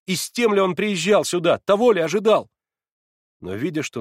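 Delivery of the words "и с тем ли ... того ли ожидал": much higher and louder, eager; animated exclaiming. A narrator's reading. Alyosha defending his father to Natasha, animated. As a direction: burst out defending him.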